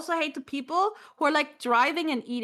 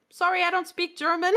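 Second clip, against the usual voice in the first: imitated German accent, slightly higher; 4 semitones higher than usual. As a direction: mimic the man's German-accented English. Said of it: "Those German, like, accent".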